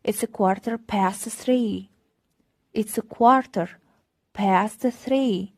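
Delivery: slow, clear teacher demo; deliberate classroom pacing; slow model reading. Shown as a demonstration. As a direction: say it slowly for learners. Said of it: "slow model".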